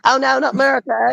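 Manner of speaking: badly faked Canadian accent with eh. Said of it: "That's a really bad Canadian accent".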